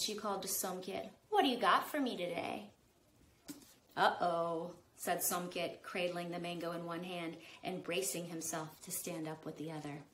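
calm read-aloud narration; story narration. A narrator's reading. Author reading her book to kids, storytelling voice. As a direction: tell it like a bedtime story.

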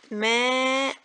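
"ماء" drawn out, closing on an N sound; tanween pronunciation. Shown as a demonstration. Teacher showing mothers how tanween is pronounced, "ماء" with tanween. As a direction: sound the unwritten noon in "ماء". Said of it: "ده النطق".

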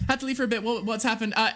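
ordinary talk, nothing marked

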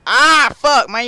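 high, loud yelp of swearing; pained yell. Real, not acted. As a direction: yell as if hurt. Hurt after fast ride.

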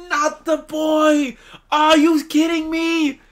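slow, drawn-out lament; mournful protest. Real, not acted. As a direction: stretch it out in dismayed disbelief. Mourns a character on screen.

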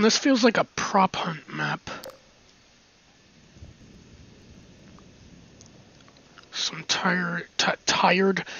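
whispering. Real, not acted. Muttering to self while exploring.

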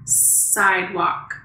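Sidewalk said slowly, stretching each sound; sounding out words. Shown as a demonstration. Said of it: "What beginning sound do you hear in sidewalk".

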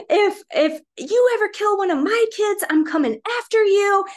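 loud, high retold threat; very upset. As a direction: imitate an enraged father warning someone off. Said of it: "he was very upset".

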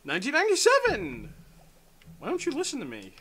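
high, loud insistent comeback; exasperated yell. Real, not acted. Insisting on an answer to a friend not listening, exasperated yell. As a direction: yell back, demanding to be heard. Yelling back in mock quarrel.

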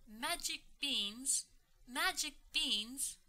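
rising, outraged double question; angry disbelief. Acted. Mom scolding Jack over the beans, in angry disbelief. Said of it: "Mom is angry".

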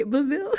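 Basil drawn out high and loud with a rise; fancy Basil. Shown as a demonstration. Mocking her own fancy reading of the name. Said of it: "Me trying to be fancy".

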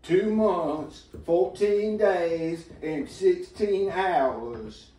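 put-on Boston accent. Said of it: "Did you just do a Boston accent?".

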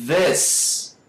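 "This" with a buzzing voiced TH; vibrating TH. Shown as a demonstration. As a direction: buzz the tongue tip into "This". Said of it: "A gente fala".

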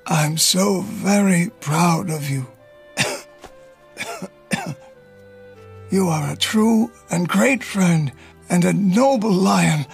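weak, tender goodbye with coughs; old uncle saying farewell to Leo as he dies; dying farewell. Acted. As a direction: say goodbye as life fades.

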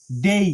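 "ডেই" ending in a clear i glide; loud "ডেই", as DAY-ee; full diphthong. Shown as a demonstration. Teacher shows Y sounds like I, gliding "ডেই". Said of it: "ওয়াই আই এর মতো".

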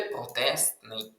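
«протестний» с отчётливо выговоренной «т»; произнеси «протестний» раздельно, сохранив «т» перед «н»; чётко по буквам. Shown as a demonstration. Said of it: "коли ми утворимо прикметник".

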